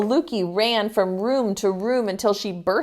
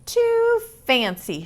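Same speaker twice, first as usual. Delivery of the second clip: put-on fussy girl voice; 13 semitones higher than usual. Aluki tries on boots in story.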